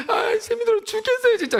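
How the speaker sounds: a worn-out believer moans to God, mock whining. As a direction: whine like an overworked churchgoer. Mock whiny prayer to God.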